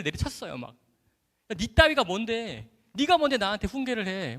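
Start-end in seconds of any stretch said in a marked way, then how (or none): 1.5-4.4 higher-pitched indignant challenge; retold scolding. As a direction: tell them off, reenacting an old quarrel. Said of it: "막 야단쳤어요".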